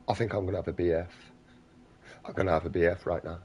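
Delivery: fast, flustered mock huff; mock hissy fit threat. Parody of an offended person threatening a bitch fit, fast mock huff. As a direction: rush it like you're about to lose it.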